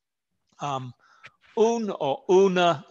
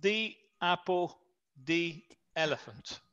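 soft demo; 3 semitones higher, 8 dB quieter than usual. Shown as a demonstration.

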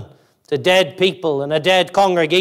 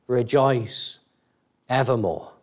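quiet, simple; 4 semitones lower, 5 dB quieter than usual. Shown as a demonstration. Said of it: "very simple truth".

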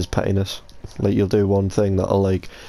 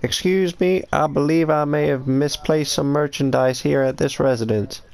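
hammed-up pimp voice; 5 semitones higher than usual. Roleplaying pimp at a house.

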